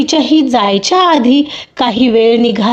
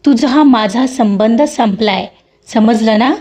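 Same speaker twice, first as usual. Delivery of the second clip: a mild angry push-back, the name raised a little; angry rebuff; slower than usual. Acted. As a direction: shake him off, stung and cold. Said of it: "तसं तिने रागातच".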